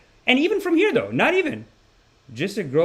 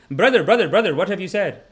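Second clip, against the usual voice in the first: louder accusing "brother"; offended man; 4 semitones higher, 5 dB louder than usual. Retold or imitated. Convention guy confronting the comic, mock accusing. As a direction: confront him in hurt disbelief.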